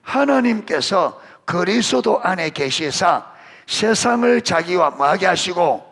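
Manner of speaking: solemn Bible reading, slowed right down; scripture reading. Acted. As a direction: read the verse out deliberately, slowly. Reading scripture aloud to congregation.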